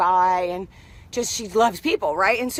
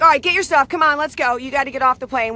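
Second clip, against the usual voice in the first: imitating the agent, higher and louder; mock stern order; 4 semitones higher, 4 dB louder, faster than usual. Gate agent ordering passenger off the plane, mock stern. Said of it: "she's like".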